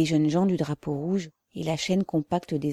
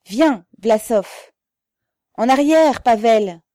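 loud, high urgent call; alarmed cry; 6 semitones higher, 10 dB louder than usual. A narrator's reading. Crowd calls Pavel back from the soldiers, alarmed cry. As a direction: call him back from danger. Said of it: "Des voix criaient, inquiètes, étouffées".

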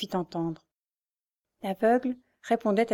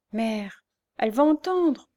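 stammering plea; 4 semitones higher, 4 dB louder than usual. A narrator's reading. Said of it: "balbutia le rémouleur en implorant".

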